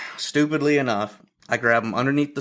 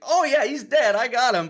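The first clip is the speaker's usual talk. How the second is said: much higher-pitched, acted-out assurance; emphatic assurance; 13 semitones higher than usual. Hunter answering curious doctors, emphatic retold assurance. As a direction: replay an eager confirmation of the kill.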